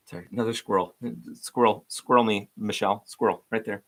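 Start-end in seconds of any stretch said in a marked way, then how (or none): 1.3-3.8 excited calling out. Real, not acted. Calling out a squirrel.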